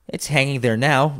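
put-on high child's voice; lightly voiced, high-pitched boy. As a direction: answer as a young lad. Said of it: "replied the".

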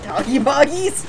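slow, high, loud rising question; questioning echo. Retold or imitated. Echoing a teammate's silly word, questioning. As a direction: throw it back high and incredulous.

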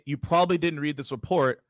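unhurried, measured dictation; slowed down. Shown as a demonstration. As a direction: repeat the opener at a steady, careful pace. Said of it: "So I'll slow it down".

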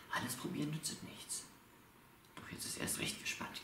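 rhythmic, measured Christmas verse with pauses; dramatic poetry performance; poem recital. Acted. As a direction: recite a wry poem from memory, line by line. Recites own Christmas poem by heart.

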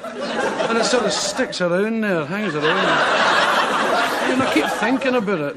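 laughing. Real, not acted. Laughing while recalling bad sausages.

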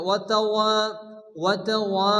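তাওয়া with a long final waa; long vowel stretch. Shown as a demonstration. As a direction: hold the last aa of তাওয়া. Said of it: "এক আলিফ পরিমাণ টান দিয়ে".

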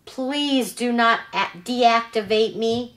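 a hint of a robot begging not to be switched off. Robot pleads before shutdown.

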